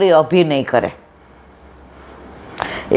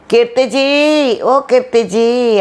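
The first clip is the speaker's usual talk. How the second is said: high, slow call from outside the house; 5 semitones higher, slower than usual. Retold or imitated. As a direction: stretch the name out as if calling across a courtyard. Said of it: "બહારથી બૂમો પાડે".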